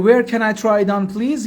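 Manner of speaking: slow, carefully spaced English; slow teaching demo. Shown as a demonstration. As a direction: spell it out slowly for learners. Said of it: "teacher repeats phrase for learners".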